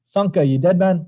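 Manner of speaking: mock Jamaican movie quote; bad Jamaican accent. Host quoting Cool Runnings to help, bad Jamaican accent. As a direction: try a rough Jamaican accent. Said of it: "bad Jamaican accent we do".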